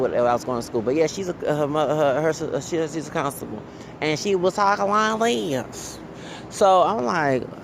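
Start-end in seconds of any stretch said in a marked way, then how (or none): 4.5-6.0 put-on high, drawn-out Anglo woman accent. Mimicking a Latina constable who talks like her white coworker, Anglo accent. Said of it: "talking like an Anglo woman".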